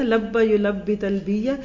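لبا یلبی تلبیہ said slowly, each word apart; teacher spelling out لبا یلبی تلبیہ slowly; slow Arabic root recitation. Shown as a demonstration. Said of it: "لبا کوئی کہہ دے نا".

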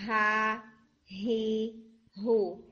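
ہا، ہی، ہو each breathed out clearly; ha hee ho drill. Shown as a demonstration. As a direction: push air out on ہا ہی ہو. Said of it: "آپ کی جو ہوا ہے وہ باہر آ رہی ہے".

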